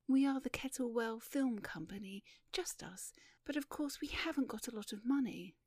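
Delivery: lightly voiced shy heroine; a hint of shyness; shy young woman. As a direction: explain bashfully, dropping away on the aside. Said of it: "and she was shy and beautiful".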